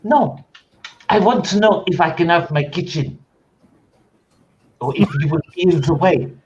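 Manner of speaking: French cook staking a claim on the kitchen; French chef. Acted. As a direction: play a haughty French chef.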